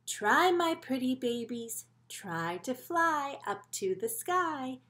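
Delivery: slow, sing-song mother coaxing her babies; lightly voiced proud mama bird; gentle mama bird. Mama bird coaxing her babies to fly, slow sing-song. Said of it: "She says".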